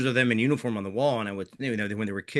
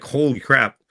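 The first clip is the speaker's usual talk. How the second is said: louder, higher burst of amazement; stunned exclamation; 4 semitones higher, 8 dB louder, slower than usual. Retold or imitated. Soldier hearing his words mattered to the girl, amazed. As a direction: blurt it out, floored.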